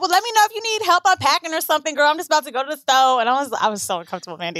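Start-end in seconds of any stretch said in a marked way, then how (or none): 0.0-3.2 mimicked breezy, over-familiar neighbor; put-on slangy neighbor. Neighbor offers help unpacking, put-on slangy imitation. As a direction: lightly imitate her chummy put-on talk. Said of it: "So then she was like".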